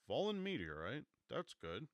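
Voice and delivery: high, loud, delighted; excited. Acted. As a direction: sound thrilled by it. Henderson thrilled by the news.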